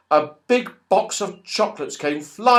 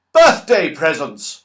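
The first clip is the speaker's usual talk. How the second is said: louder delighted shout; excited shout; 7 dB louder than usual. Acted. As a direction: cry out in delight, jumping up. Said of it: "shouted What's-His-Name".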